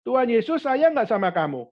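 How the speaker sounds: put-on cheerful question to kids. Preacher asks the school children, cheerful and loud. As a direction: lift it like asking a class.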